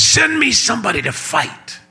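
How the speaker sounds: high, put-on giant taunt; Ken Graves giant voice. Giant taunting Israel's army, high mock voice. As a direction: voice the giant calling for a fighter. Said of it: "did that sound a little bit like Ken Graves".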